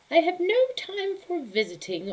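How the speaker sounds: put-on high, loud grumpy old lady voice; cranky old woman. Grumpy Befana turning visitors away, high loud cranky voice. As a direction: snap it out like a grouchy recluse.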